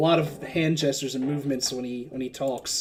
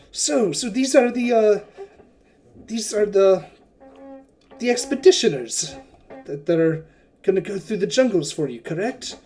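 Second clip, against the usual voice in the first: higher, lightly voiced eager host; curious merchant; 4 semitones higher than usual. Wakanga asks Sinjara about the expeditioners, eager and higher. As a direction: size up the group with interest. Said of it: "He's like".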